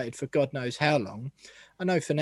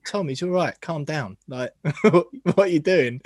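improved but still rough Scouse attempt; amateur Scouse impression, half laughing at it; Scouse accent; 2 semitones higher, 4 dB louder than usual. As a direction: imitate a Scouse player calming a teammate. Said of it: "that was a better Scouse".

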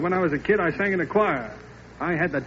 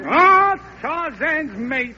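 high, loud, slow dramatic cry; hammed-up Stanislaus; 8 semitones higher, 6 dB louder, much slower than usual. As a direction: overplay the hero greeting his love. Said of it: "Carrie, you be Stanislaus".

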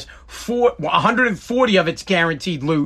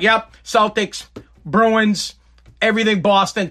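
put-on Boston accent; 3 semitones higher than usual. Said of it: "He'd be like".

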